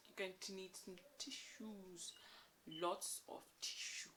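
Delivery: hushed tip for the viewer; whispered warning. Real, not acted. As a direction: whisper it like a secret. Warning that the book is sad.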